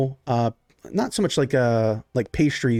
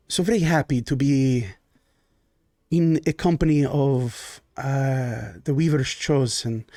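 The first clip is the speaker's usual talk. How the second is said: lightly voiced genteel Baron. GM as the Baron greeting his guests: lightly voiced genteel host.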